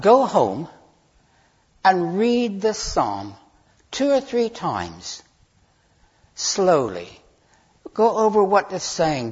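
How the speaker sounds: spaced-out phrases with long pauses; slow, deliberate urging. Real, not acted. Preacher sending listeners home to reread the psalm, slow and deliberate. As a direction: model the unhurried reading you ask for.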